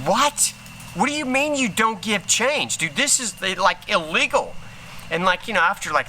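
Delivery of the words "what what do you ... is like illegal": livid customer. Retold or imitated. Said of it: "this guy goes livid".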